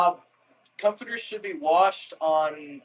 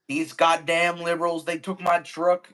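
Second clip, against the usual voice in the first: lightly put-on Southern country accent; joking about liberals in a mild mock Southern country accent; 3 dB louder than usual. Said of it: "funny to say shit like that in a country accent".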